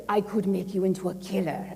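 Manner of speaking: measured, put-on Russian accent. Russian ex-director making an offer, mock Russian accent. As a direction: imitate a Russian boss with a mild accent. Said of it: "forgive my Russian accent".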